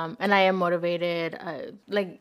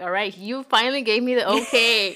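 higher and louder, eager "let's go"; eager excitement; 3 semitones higher, 6 dB louder than usual. Retold or imitated. To Derek, finally getting the okay, eager excited burst. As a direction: burst out like she's finally been given permission. Quoting her eager reply.

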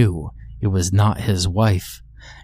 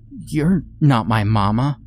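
croaking; 4 semitones higher than usual. Acted. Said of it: "Lily croaked".

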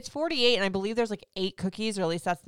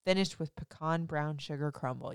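sexy voice. Acted. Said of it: "I got my sexy voice on for that".

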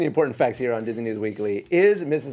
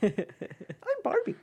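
very high, very slow chirpy Barbie voice; sing-song it up high, dragging every sound; Jodi Benson's Barbie; 3 dB quieter, much slower than usual. Shown as a demonstration. Showing off a Barbie impression, very high and slow. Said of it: "That's your Jody Benson impression?".

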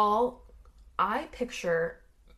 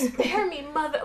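high, whiny pleading; hammed-up cowardly whimper for mercy; begging for my life; 6 semitones higher than usual. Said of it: "he's begging for his life".

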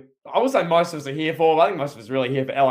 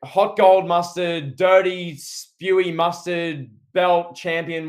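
slow, sneering drawl of the words; mocking; slower than usual. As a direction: savor each insult to the belt. Mocking the champion's belt.

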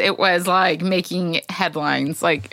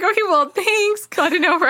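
sarcastic thanks; 9 semitones higher than usual. Retold or imitated. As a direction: drag out a sarcastic thank-you. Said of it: "I was like".

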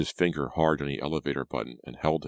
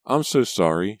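high, loud, tearful plea; acted distressed apology, no real tears; sobbing apology; 6 semitones higher, 6 dB louder than usual. A narrator's reading. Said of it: "she said, sobbing".

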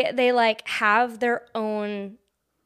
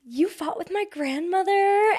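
flirty sprite; 8 semitones higher than usual. Retold or imitated. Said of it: "She's such a little flirt".

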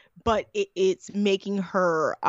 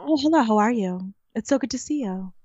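a touch of a lowered service voice; customer service voice. Retold or imitated. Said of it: "That's my customer service voice".

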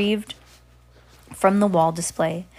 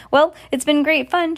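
put-on high, louder little-girl nerves; nervous; 8 semitones higher, 6 dB louder than usual. Scared girl getting up to leave the witches, nervous. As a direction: pitch it up, nervously making excuses. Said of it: "died into a nervous chuckle".

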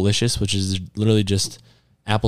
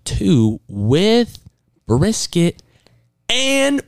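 excited; 11 semitones higher, much slower than usual. Real, not acted. Excited listing of free food.

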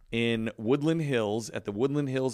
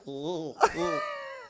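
elf giggle. Pretend. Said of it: "elf voice".

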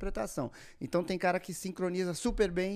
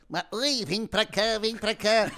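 high, loud cartoon voice doing a TV host; squeaky cartoon character imitating a showman's catchphrase; Bob Esponja; 5 semitones higher, 5 dB louder, slower than usual. Sponge asked to impersonate Silvio Santos, same high cartoon voice. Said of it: "o Bob Esponja faz imitações".

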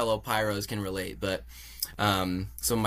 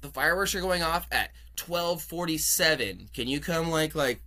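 higher, eager hype voice with a laugh; hyped call-out; 6 semitones higher than usual. Retold or imitated. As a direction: pitch it up like coaxing strangers at a festival. Calling out to a couple.

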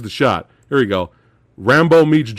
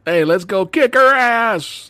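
hammed-up action hero, raised pitch; mock rallying cry; 6 semitones higher than usual. Host imitates Snake arriving to help, mock rallying cry. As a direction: imitate a gung-ho buddy charging in.

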